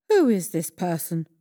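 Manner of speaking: loud angry demand; the angry king shouts to learn the plotter's name; king shouting. A narrator's reading. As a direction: bellow the question at the court. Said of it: "shouted the king".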